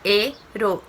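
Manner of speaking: "Heroína." split as he-ro-í-na; teacher slowly separating "Heroína." into its syllables; syllables split apart. Shown as a demonstration. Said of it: "vamos separar as sílabas dela".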